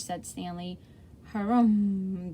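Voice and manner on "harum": grumbled harrumph. Acted. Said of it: "the man grumbled".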